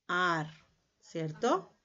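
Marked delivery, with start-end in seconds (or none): 0.1-0.5 "ar" set apart as its own syllable, vowel held; separate syllable. Shown as a demonstration. Teacher giving the second syllable of crear, "ar" set apart. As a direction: say "ar" alone, drawn out, softly. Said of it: "y en la otra sílaba".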